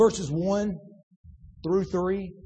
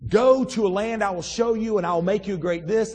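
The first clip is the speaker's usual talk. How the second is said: God's plain clear call; 5 dB louder than usual. Retold or imitated. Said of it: "in a voice that you can hear and understand".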